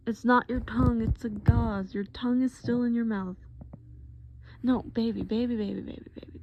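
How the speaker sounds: put-on flustered boyfriend hurrying to correct; concerned boyfriend, urgent. Boyfriend to drugged partner with gauze out, urgently reassuring. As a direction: talk a panicking partner down, insistently.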